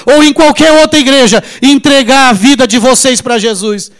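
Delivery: loud, firm, preaching at full force; forceful preaching rebuke. Retold or imitated. Pastor retelling how he told the widow's family to go to church, loud and forceful. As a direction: drive every word home with authority.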